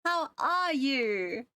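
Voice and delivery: high squeaky voice, slow and drawn out; squeaky high helium voice. Real, not acted. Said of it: "Oh my god, my voice".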